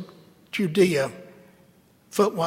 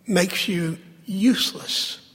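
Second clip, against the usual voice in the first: ordinary delivery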